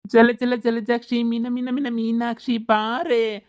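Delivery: slow high sing-song summons; eerie drawn-out ghostly call. Acted. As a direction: chant her name like a spirit luring. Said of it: "ಬಾಬಾ ಅಂತ ಕರಿತಾ ಇತ್ತೆ ದೆಯ್ಯ".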